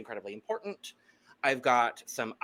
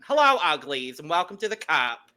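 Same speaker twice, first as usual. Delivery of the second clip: quicker, lighter doll greeting; brief louder drag queen hello; Cynthia Doll impression; 6 dB louder than usual. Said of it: "so I will do my Cynthia Doll impression".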